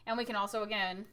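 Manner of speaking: ordinary talk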